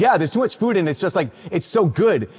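lightly voiced grumbling football player; mock whiny teen boy. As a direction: imitate a teenage boy griping, hammed-up. Boys complain about food.

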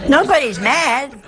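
loud, laughing reassurance. Real, not acted. Laughs at own story.

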